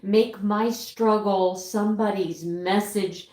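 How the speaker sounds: choked up but holding it together; heartfelt, struggling to keep composure; emotional breakdown. Real, not acted. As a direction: plead through real emotion, pausing to collect yourself. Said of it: "sorry about that emotional breakdown".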